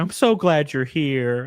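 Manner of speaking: drawn-out mock gushing; imitating tipsy friend. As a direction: lightly mimic an overjoyed drunk friend. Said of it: "she had been drinking".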